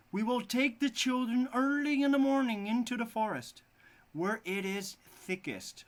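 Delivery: high, loud scheming wife. Acted. The wife plots to lose the children, high and loud. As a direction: lay out the cruel plan, high and loud. Stepmother plotting in fairy tale.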